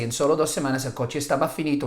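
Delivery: "estaba finito" rushed out a bit fast; a student slipping quickly into the wrong word; blurted by accident. Retold or imitated. Student slips in class, saying it a bit fast. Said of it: "you can hear them by accident say".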